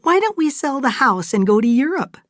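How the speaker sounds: carried away with glee; lightly voiced tipsy delight; merry and excited. A narrator's reading. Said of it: "Fay laughed".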